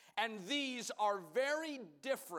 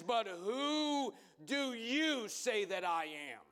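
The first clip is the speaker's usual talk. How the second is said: Jesus asking pointedly. Acted. Jesus turns to the disciples.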